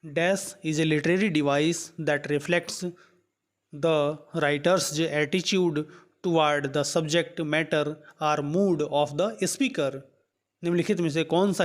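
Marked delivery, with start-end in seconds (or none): 0.0-10.0 reads the English question out word by word, very slowly; slow question reading. Acted. Teacher reading the quiz question aloud to students, slow and deliberate. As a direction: dictate it slowly so students can follow.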